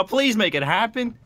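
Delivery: ordinary delivery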